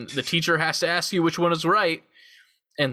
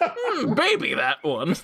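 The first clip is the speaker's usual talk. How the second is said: high drawn-out coy voice; sultry maybe; 10 semitones higher, much slower than usual. Pretend. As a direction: purr it out teasingly. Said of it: "I thought you said, "Mm, maybe".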